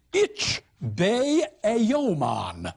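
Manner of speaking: slow, put-on southern gentry accent, stressing Ich; a northerner faking a posh Southerner; mock Southern accent. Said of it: "giving us a kind of pan-Southernism".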